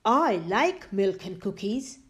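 a touch of a friendly dragon. Acted. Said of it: "said the dragon".

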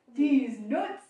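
loud, drawn-out mock "Dix-neuf" with a twisted ending; imitating teacher's dix-neuf. Old French teacher's odd number, mimicked loudly to a classmate. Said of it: "mais elle toujours dit dix-neuf".

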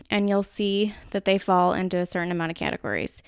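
slipping into a Minnesota accent; light Minnesota accent on the vowels. Real, not acted. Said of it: "ooh, my Minnesota accent came out there".

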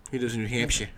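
soft, throwaway fake Boston accent; fake Bostonian accent. Co-host tells of the great uncle, fake Bostonian accent. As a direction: say New Hampshire like a mock Bostonian. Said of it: "With our fake Bostonian accents".

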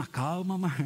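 tentative testing take. Shown as a demonstration.

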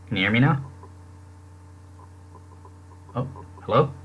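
robotic breaking-up call audio; garbled, glitchy phone line; buzzy glitchy call audio. Real, not acted. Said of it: "No, you're still robotic".

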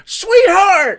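high, loud crying call; character impression. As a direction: wail "Sweetheart!" like the movie character. Quoting the film's character.

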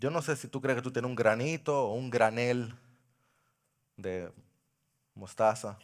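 soft, low pastoral appeal; quiet, tender sermon close; intimate altar call. Acted. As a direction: speak gently to each listener.

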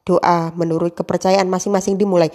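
measured ceremonial emcee address, each greeting set apart; a lightly performed formal master of ceremonies; formal MC opening. Shown as a demonstration. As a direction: open the event like a school ceremony host. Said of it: "itu contohnya kalau ... jadi host".

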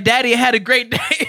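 put-on high, loud sing-song kid; little girl voice. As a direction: play the sweet daughter. Child voiced sweetly.

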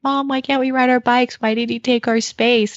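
put-on a tearful child asking why. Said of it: "crying because they were like".

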